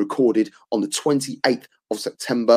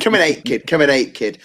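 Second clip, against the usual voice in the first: put-on playful Northampton accent, "Coming eight, kid" said twice; hammed-up Northampton lad voice; a light mock Northampton accent, repeated for a laugh. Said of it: "That's my Northampton accent".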